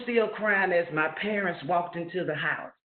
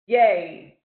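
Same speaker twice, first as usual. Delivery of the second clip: louder happy little yay; childlike cheer; 2 semitones higher, 8 dB louder than usual. Retold or imitated. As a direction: celebrate like a small kid. Child cheers at new home.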